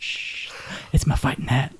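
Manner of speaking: hushed country bumpkin Finn; country accent. Acted. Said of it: "it's a country accent".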